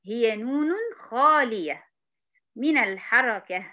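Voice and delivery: drawn out slowly, stress on خالية; slow dictation. Shown as a demonstration. Teacher repeating the definition slowly for the student. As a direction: say it slowly so she can follow. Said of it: "انتبهي معايا".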